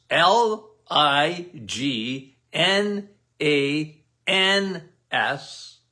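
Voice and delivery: slowly spelling out lignans as L I G N A N S, one letter at a time; spelled letter by letter. Shown as a demonstration. Slowly spelling out lignans for a viewer who asked about flax seeds. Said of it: "and lignans".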